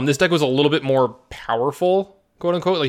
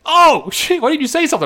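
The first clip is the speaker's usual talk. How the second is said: much higher and louder, startled panic; imitating a startled opponent, pitch shooting up; mock shocked realization; 7 dB louder than usual. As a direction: yelp it out as the sudden realization hits. Opponent realizes he's mind-controlled.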